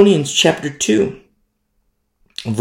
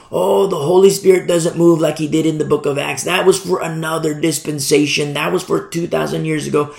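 mock objector, rattled off on an even, slightly raised pitch; mimicking naysayers; 2 semitones higher than usual. Preacher quoting today's Holy Spirit doubters, mildly mocking. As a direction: parrot the doubters in a steady singsong line.

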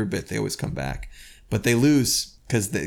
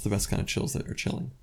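softer, whispered mock-eerie aside; mock spooky whisper; 6 dB quieter than usual. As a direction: whisper it like a campfire ghost story, tongue in cheek. Mocking spooky undead cliché.

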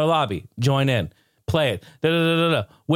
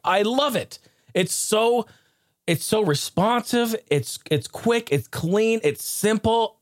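real rant; 6 semitones higher than usual. Real, not acted. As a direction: gush and gripe in a raised, high voice. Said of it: "I'm yelling now".

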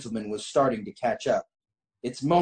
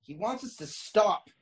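high, incredulous mock yell; hammed-up indignant shout back; 9 semitones higher than usual. A narrator's reading. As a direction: protest in raised-pitch disbelief. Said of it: "I yell back".

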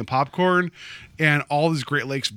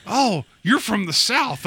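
mocking imitation; 7 semitones higher, slower than usual. Mimics people calling him Southern.

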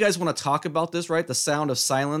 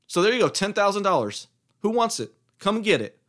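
taunting challenge; 6 semitones higher than usual. Real, not acted. Taunting listeners to take bet.

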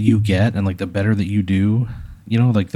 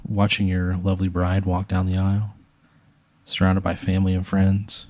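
hushed storytelling. Pretend. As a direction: unfold the wedding scene gravely, line by line. Narrates an imagined wedding scene.

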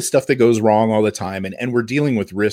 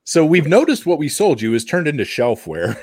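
laughing mock vendor apology; 7 semitones higher than usual.

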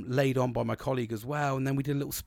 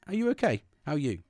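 higher, sincere and interested; genuinely caring; 3 semitones higher, faster than usual. Shown as a demonstration. Checking on a struggling colleague, sincerely caring. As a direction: ask it like you really mean it. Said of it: "And mean it genuinely".

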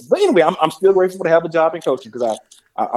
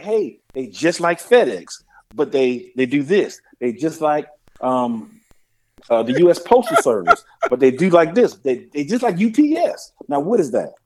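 hinting dad. Retold or imitated.

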